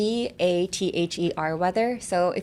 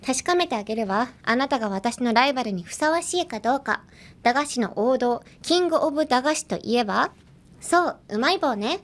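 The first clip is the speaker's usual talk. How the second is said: anime rival line; 5 semitones higher, much faster than usual. Acted. Anime character line read in Japanese.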